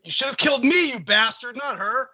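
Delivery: angry yell. Acted. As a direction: spit it at him in rage. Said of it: "I yell at him angrily".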